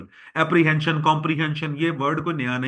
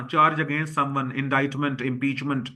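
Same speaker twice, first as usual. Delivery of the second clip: slow dictation; much slower than usual. Shown as a demonstration. Teacher dictates meaning slowly.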